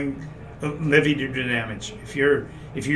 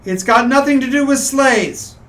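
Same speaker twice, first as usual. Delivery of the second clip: troll voice; 10 semitones higher, 7 dB louder than usual. Acted. GM gives troll clue.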